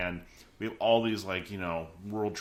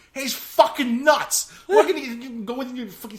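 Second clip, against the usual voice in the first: British bloke; 11 dB louder than usual. Retold or imitated. A British flatmate mocks Peter's plan, laughing British accent. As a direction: laugh it out like a rowdy Brit. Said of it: "a British person says".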